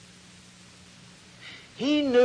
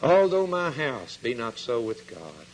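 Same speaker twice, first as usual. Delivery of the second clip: sighing; 4 semitones lower than usual. Retold or imitated. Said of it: "and sighs and says".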